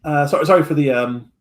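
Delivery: put-on stammering, flustered young lord; nervous. Nervous young lord introducing himself to hired adventurers, nervously stammering. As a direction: stumble over the words like a nervous host. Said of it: "a little bit nervous".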